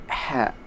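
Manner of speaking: "ha" pushed out from the throat like a drawn breath; breathy ha. Shown as a demonstration. Teacher showing "ha" from the throat, breathy. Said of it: "seperti ketika kita mengambil nafas".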